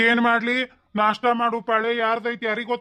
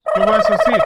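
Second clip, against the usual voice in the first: loud call; 8 dB louder, slower than usual. Acted. Father-in-law calls daughter-in-law.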